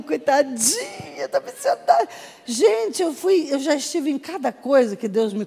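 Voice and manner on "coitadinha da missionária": high, laughing mock pity. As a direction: pity the poor missionary in a high voice. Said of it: "vocês pensam que missionário". (com pena fingida, voz aguda)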